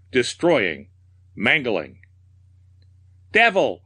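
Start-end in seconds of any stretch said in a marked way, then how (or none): 3.3-3.8 high, fierce cry; theatrical mad outburst, pitched way up; raving. A narrator's reading. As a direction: hurl it out as a mad curse. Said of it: "I raved".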